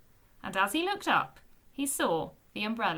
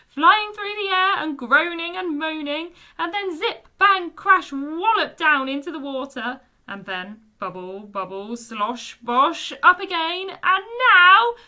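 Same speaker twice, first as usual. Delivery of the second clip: louder and higher with mounting glee; laughing retelling; 6 semitones higher, 10 dB louder than usual. A narrator's reading. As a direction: gleefully act out the fall. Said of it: "Bungo said wheezily".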